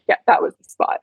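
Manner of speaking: breathy whisper as the contented mare; whispered horse voice. Pretend.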